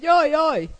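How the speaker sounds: high, loud mock yelp; imitated child's cry. Preacher imitating a child yelling outside, mock cry. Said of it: "hirtelen elkezd kiabálni".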